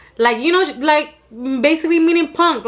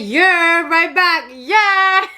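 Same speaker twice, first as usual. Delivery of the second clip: yeah call and answer; 4 semitones higher, much slower than usual. Shown as a demonstration. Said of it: "definitely say".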